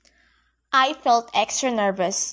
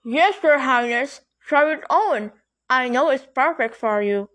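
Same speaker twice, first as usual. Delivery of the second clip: exclaimed. A narrator's reading. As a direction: gush with excitement. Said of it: "she exclaimed".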